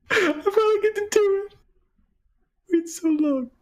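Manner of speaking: high, giddy squeal of joy; excited. Real, not acted. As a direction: finally get your moment, thrilled. Excited player, high pitched.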